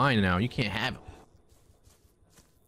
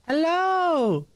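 high cow voice; 5 dB louder than usual. Pretend. Player voices cow greeting.

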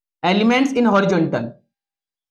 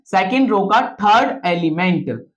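slow dictation. Shown as a demonstration. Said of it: "इसका मतलब क्या है?".

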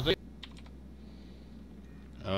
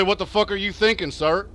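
exasperated cop; 3 semitones higher, 4 dB louder than usual. Acted. Cop scolding suspect.

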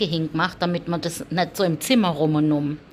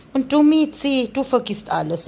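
high, louder call to the cat; fond call; 6 semitones higher, 4 dB louder than usual. Real, not acted. Owner turning to her cat Miezi, high and louder. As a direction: turn brightly to the next cat.

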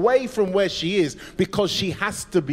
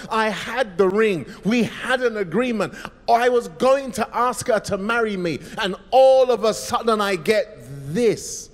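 pained; 4 semitones higher, 3 dB louder than usual. Acted. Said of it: "he says it in pain".

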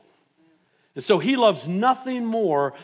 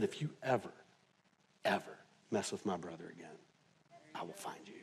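low, hushed threat fading to a whisper; big brother quietly threatening a bully; menacing whisper; 12 semitones lower, 18 dB quieter, faster than usual. Retold or imitated.

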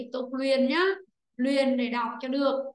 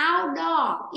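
"Outdoor" with OUT stressed, a bit higher and louder; 3 semitones higher, 4 dB louder than usual. Shown as a demonstration. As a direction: lean on the first syllable OUT in "Outdoor". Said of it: "Nó rơi vào chữ in và chữ out".

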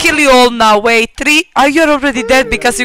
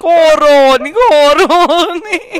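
imitated adoring viewers; 3 semitones higher, slower than usual. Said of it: "they were all like".

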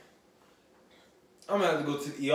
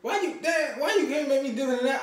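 after bitter medicine; 9 semitones higher than usual. Real, not acted. Forced to eat hot chip.

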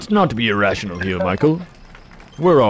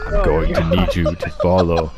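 mock seduction; 4 semitones lower than usual. Playing the seductive reverend, mock.

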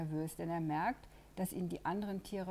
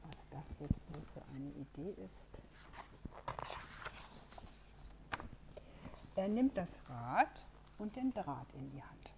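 whisper. Acted. Storyteller builds suspense.

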